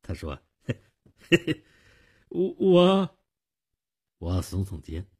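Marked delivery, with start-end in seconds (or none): 0.6-3.2 high, nervous stuttering; pitched up, panicky and tongue-tied; scared stammer. A narrator's reading. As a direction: stumble over the words in fright. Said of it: "他的脸更绿了".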